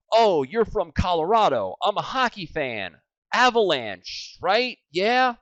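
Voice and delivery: high-pitched, over-eager sports small talk; mock chummy fan, pushing for agreement; fake rapport-building. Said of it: "That's being a moron again".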